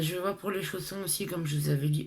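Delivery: lisped s and ch sounds; talking with a lisp. Real, not acted. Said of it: "ce zozote maintenant".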